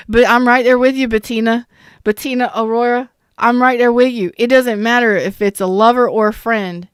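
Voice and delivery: rally her like a coach; fired-up encouragement. Real, not acted. Cheering on a chat viewer.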